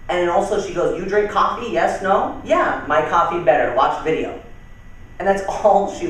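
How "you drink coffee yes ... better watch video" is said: lightly imitated Cambodian-accented English; a hint of Cambodian accent. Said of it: "very, very thick accent".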